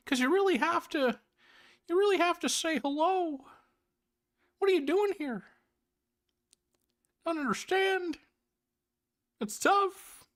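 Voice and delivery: very high mock-professor voice in halting bursts; hammed-up, plaintive high impression with long pauses; Jordan Peterson. Host parodies a baffled pundit puzzling over the movie, Peterson impression. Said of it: "I am not doing a good Jordan Peterson tonight".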